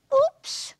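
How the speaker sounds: high, loud startled cry; a sudden startled yelp; surprised oops. A narrator's reading. Narrator as Ziz, caught crashing, startled.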